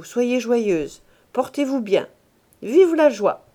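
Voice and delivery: a miser suddenly all good cheer; jovial and loud. Acted. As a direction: play the generous husband, a touch forced. Grandet's sudden jovial speech to wife.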